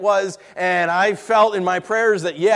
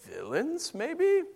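mock naive reader; 2 semitones lower, slower than usual. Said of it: "we're like".

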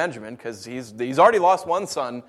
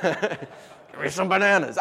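put-on toddler voice; 3 semitones higher, slower than usual. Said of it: "her response is".

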